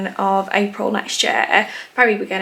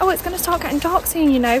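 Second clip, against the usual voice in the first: imitating herself; 7 semitones higher, 3 dB louder than usual. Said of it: "I was like".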